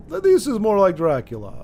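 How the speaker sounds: Russian-style Dracula. Shown as a demonstration. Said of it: "but he's higher pitched".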